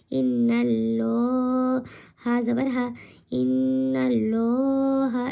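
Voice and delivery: ইন্নাল্লাহা with the lam said full and round; ইন্নাল্লাহা, heavy rounded lam, drawn out; full heavy Allah. Shown as a demonstration. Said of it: "এভাবে পড়তে হবে".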